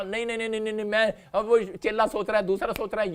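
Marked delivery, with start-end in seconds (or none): 0.0-0.9 a disciple's mock panicked protest, lightly voiced. Preacher voicing a frightened disciple in the storm, mock panic. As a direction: repeat no in a hushed fright.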